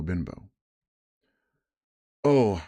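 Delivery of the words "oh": put-on sharp alarmed cry of a boy, louder. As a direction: call out in alarm. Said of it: "I cried".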